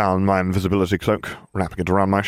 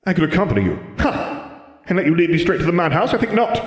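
put-on old wizard voice; 10 semitones higher than usual. A narrator's reading. Dumbledore voiced in a story.

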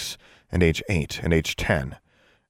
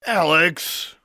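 higher-pitched call through a door; raised-voice name call; 10 semitones higher than usual. A narrator's reading. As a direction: call after someone who left. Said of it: "he called through the door".

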